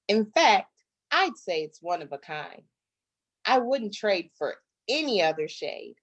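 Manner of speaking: lively, sing-song picture book reading; reading to children. Acted. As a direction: read it like a rhyming story to little kids. Reads picture book aloud.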